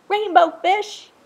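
high, loud call; calling after. A narrator's reading. Little blue fish calling after Rainbow Fish, high and loud. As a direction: shout to catch him up.

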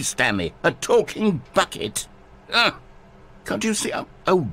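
high, animated protest; exasperated disbelief. Acted. Narrator tells Stanley the bucket was a joke, exasperated. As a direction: plead with rising pitch that it was obvious.

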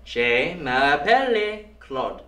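slow, mangled "Je m'appelle Claude"; bad French copy. Shown as a demonstration. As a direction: echo the French line slowly and get it wrong. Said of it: "it's not quite what I'm saying".

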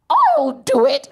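high, slow, drawn-out volunteering; mock a politician offering herself, high and slow; Theresa May. Comic imitating a politician volunteering for Brexit, high drawn-out voice. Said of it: "Theresa May just came through".

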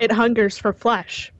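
slow, ominous trailer narration; horror trailer voice. Acted. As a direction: build dread like a movie trailer. Reading a horror movie card.

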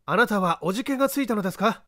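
a lightly voiced, unhurried gentleman sleuth; composed gentleman detective. The detective calmly directing the man up the ladder.

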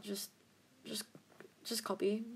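breathy whispered aside. Real, not acted. Tutor whispering to viewers to just copy her. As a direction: drop to a whisper, half giving up.

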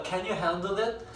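"Can you handle it?" drawn out slowly and softly. Shown as a demonstration. Teacher acts out a helpful stranger's slow question. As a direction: stretch each word. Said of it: "무거운 거 들고 가니까".

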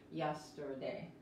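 YESTERDAY slowly, with a U sound for the R; R dropped. Shown as a demonstration. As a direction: model YESTERDAY softly and slowly, no trilled R. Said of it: "pronuncian la U más como la, la U de inglés".

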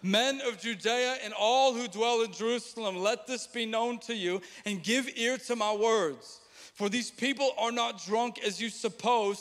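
scripture read in proclamation. Shown as a demonstration. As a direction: read it out like a herald. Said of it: "We read verse fourteen".

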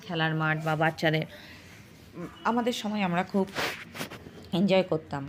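talking with a toothbrush in; words round a toothbrush; while brushing teeth. Real, not acted. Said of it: "এখন আমি brush করছি".

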